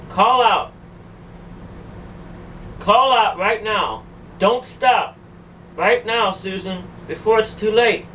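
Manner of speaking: retold voice urging, mildly forceful; urgent command. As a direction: press her to act before time runs out. Demon voices urging her to call out.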